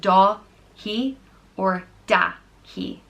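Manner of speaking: "Dahi" drawn slowly, stress on Da; slow model word. Shown as a demonstration. Modelling the name twice, slowly. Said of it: "it's pronounced".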